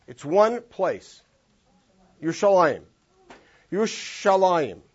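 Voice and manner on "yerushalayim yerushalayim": "Yerushalayim" with a long, heavy sh sound; heavy shin. Shown as a demonstration. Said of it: "Listen to that very heavy shin".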